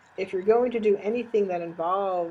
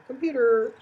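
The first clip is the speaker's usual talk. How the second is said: computer, said much higher and louder; 7 semitones higher, 5 dB louder than usual. Shown as a demonstration. Lecturer showing tone changes nothing in English, high pitch. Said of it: "four or five different tones there".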